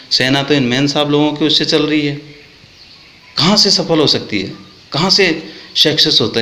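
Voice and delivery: angry complaint; heated rant. Real, not acted. Angry rant against officers' wives.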